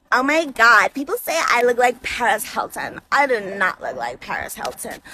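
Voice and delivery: put-on low, soft, vain drunk murmur; a tipsy girl muttering at her own reflection, low and soft; drunk girl to herself.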